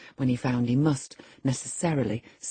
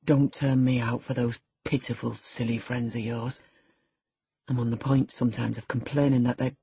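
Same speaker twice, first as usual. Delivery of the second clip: slightly lowered, sullen youth's voice; young Heathcliff, resentful; 4 semitones lower than usual. Acted. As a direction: complain with a touch of sulky reproach.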